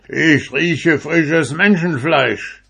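high, loud, slow giant roar. A narrator's reading. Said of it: "und brüllte".

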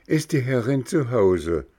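lightly voiced puppet calling upward; a cold little puppet at the door; puppet boy calling up. Bengele ruft empor. (leicht gespielter Hampelmann, nach oben rufend)

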